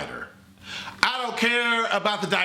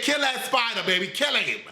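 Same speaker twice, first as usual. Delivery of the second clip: building cheer; 6 semitones higher than usual. Retold or imitated. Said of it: "I said".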